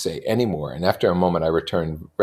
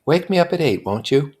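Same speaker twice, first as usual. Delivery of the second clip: put-on higher young woman voice; Jordan voice; 10 semitones higher, 5 dB louder than usual. A narrator's reading. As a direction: lift into a light high voice.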